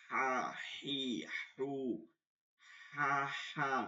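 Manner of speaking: long, forceful throat h on "হা", "হি", "হু"; pressed throat articulation. Shown as a demonstration. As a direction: press out each "হা", "হি", "হু" separately from the throat. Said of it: "এরকম". (গলায় চাপ দিয়ে টেনে "হা", "হি", "হু")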